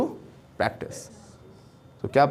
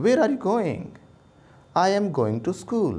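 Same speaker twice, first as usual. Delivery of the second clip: higher, cartoon-style kids' English; 6 semitones higher, much slower than usual. Teacher imitating a kids' cartoon dialogue. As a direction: mimic a simple cartoon character. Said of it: "बहुत simple language बोलेंगे".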